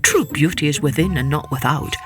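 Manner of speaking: king musing. Acted. King doubting his bride, low and pondering. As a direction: think it through like a wary king.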